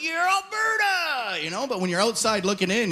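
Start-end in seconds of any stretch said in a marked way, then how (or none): 0.0-1.4 high, slow, drawn-out boast; proud Albertan. Retold or imitated. Albertans proclaiming their province, high and slow. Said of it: "you're like".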